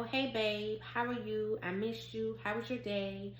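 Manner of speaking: softly, sweetly wishing to be greeted; soft sweet greeting. Retold or imitated. Wife voicing the greeting she wanted, soft and sweet. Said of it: "Like, you know".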